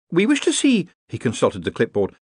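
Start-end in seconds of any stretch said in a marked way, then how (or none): 0.1-0.9 put-on high, officious young wizard; official Ponder. A narrator's reading. Ponder addresses a scullery boy, officious. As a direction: announce it like a petty official.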